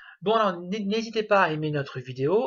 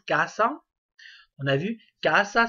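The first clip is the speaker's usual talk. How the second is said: casa with the first A stressed; 4 dB louder than usual. Shown as a demonstration. Teacher showing learners where casa takes its tonic accent, stressed first A. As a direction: lean on the first syllable of casa. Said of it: "premier A qui a l'accent tonique".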